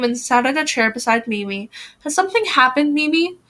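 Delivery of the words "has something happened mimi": gentle. A narrator's reading. Mother sitting beside Mimi, gentle question. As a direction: ask it tenderly, lifting at the name. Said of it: "she asked gently".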